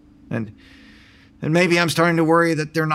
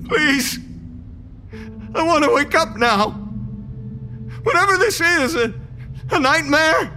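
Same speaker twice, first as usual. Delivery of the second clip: much higher, near tears, begging; desperate pleading; 10 semitones higher than usual. Acted. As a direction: panic rising as everyone vanishes. Desperate pleading, all gone.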